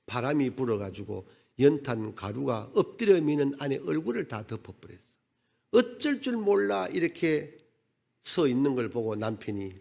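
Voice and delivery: ordinary talk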